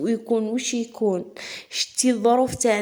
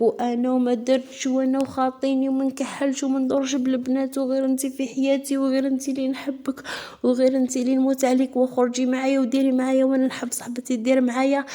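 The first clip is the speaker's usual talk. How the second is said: higher, pleading lover's voice; mock sweet-talking man; 4 semitones higher than usual. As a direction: imitate a smooth-talking guy charming a girl. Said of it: "يقول لك". (تقليد رجل يتغزل بصوت أعلى)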